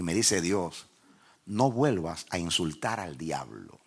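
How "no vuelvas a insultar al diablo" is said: lightly voiced God, low and slow; a low, slow divine command. God forbidding him to insult the devil, lightly voiced slow command. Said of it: "escucho la voz de Dios".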